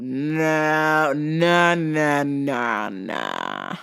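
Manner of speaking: a hint of a stubborn redneck; redneck refusal. Redneck customer refusing the clerk's alternatives, lightly voiced. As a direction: say no like a dazed hick. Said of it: "dare is a rednecky type customer".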